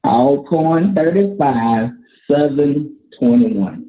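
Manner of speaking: slow and clear. Shown as a demonstration. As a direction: spell out the score slowly. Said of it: "Say it again".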